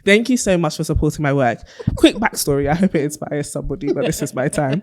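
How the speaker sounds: measured, mock-solemn thank-you speech; Oscar acceptance speech. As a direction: address the audience like an award winner. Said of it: "Not you doing your Oscar".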